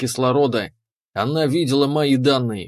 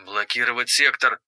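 icy command; 3 dB quieter than usual. Acted. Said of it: "скомандовала Валериус".

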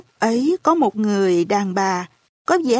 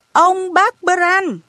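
gọi lớn, cao vút và kéo dài; bật kêu lên đau đớn, chậm rãi; 9 semitones higher, 3 dB louder, much slower than usual. A narrator's reading. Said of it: "Tôi kêu to lên". (cậu bé kêu to tên ông bác Bran)

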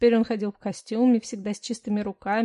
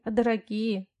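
ordinary delivery

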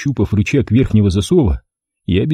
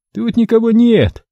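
high puzzled bleat; high squeaky man puzzled; 12 semitones higher than usual. A narrator's reading. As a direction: bleat in confusion. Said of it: "озадаченно проблеял Кастрат".

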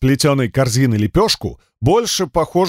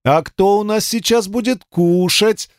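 put-on higher baby talk to a dog; cooing to a pet; 6 semitones higher than usual. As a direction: tease the dog with food, sing-song. Woman baby-talks to dog. (сюсюканье с псом, выше)

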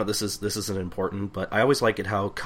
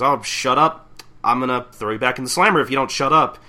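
mock angry snap; 4 semitones higher, 7 dB louder than usual. Otose snapping at Catherine.

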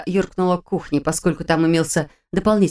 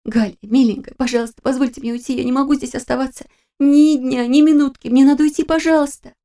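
tearful begging; 7 semitones higher than usual. A narrator's reading. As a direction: beg desperately, voice climbing as the tears come. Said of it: "я принялась умолять, захлёбываясь ими".

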